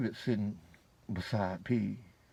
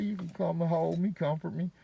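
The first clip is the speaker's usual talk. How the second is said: pleading woman; 8 semitones higher than usual. Retold or imitated. Shell asking to be comforted.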